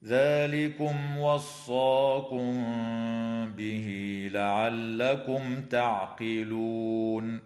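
slow, melodic tajweed chant; Quran recitation. Shown as a demonstration. Sheikh recites the verse for his listeners, slow melodic chant. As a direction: draw out each verse slowly in recitation.

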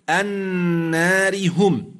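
النار هم joined without a stop, ra with kasra thinned; recited joined. Shown as a demonstration. Sheikh showing joining over a pause, slowly. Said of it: "ولكني وصلت بما بعدها".

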